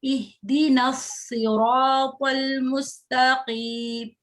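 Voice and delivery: slow, drawn-out Quranic recitation. Shown as a demonstration. Teacher reciting slowly for the student to repeat. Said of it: "कसरा है तो थोड़ा सा नीचे की तरफ".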